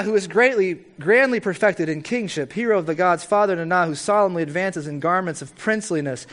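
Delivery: grand litany to a bull god; solemn prayer reading. Acted. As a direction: hail the god through his titles. Continues reading the Akkadian prayer.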